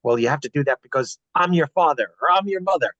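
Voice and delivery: mildly exasperated parent laying down the law; mock a fed-up parent pulling rank, lightly; a touch of frustration, leaning on the parental titles; frustrated parent. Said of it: "when you get frustrated and say".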